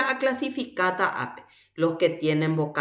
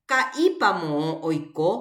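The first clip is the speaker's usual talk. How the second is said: slow demonstration reading; 3 semitones lower than usual. Shown as a demonstration. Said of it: "Ha upéi he'i".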